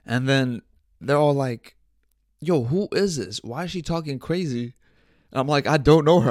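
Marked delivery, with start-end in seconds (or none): 2.4-4.7 mock bewildered outcry. Friends' alarmed reaction retold. 5.7-6.3 retold high, loud denial; imitated exasperated yell; loud defensive protest. Defends himself to accusing friends.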